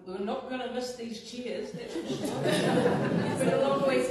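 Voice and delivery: laughing through the words, high and loud. Real, not acted. Commissioner laughing with the room about the long week. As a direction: chuckle out the joke about the chairs.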